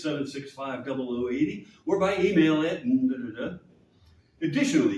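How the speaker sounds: lightly mock-formal introduction of himself; tongue-in-cheek emcee announcement; mock introducer. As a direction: introduce yourself as if someone else. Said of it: "Introducing me as if I was not me".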